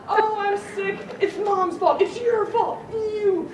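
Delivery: put-on high, loud teenage complaint; hammed-up blaming; mock whining. Imitates whining teenage daughter.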